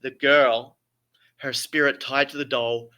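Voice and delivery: grand theatrical storytelling; Shakespearean voice. Acted. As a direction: read it like an old stage tragedy. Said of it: "I have to put my best Shakespearean voice".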